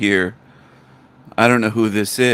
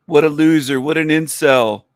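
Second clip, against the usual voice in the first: higher-pitched, derisive name-calling; real scorn; 5 semitones higher than usual. Real, not acted. Host mocking a prank caller, with open scorn. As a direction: pile on the insults contemptuously.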